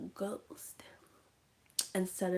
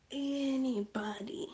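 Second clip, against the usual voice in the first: higher, stretched "anybody"; drawn-out threat; 5 semitones higher, slower than usual. Retold or imitated. Aunt boasting of her power, slow drawn-out "anybody".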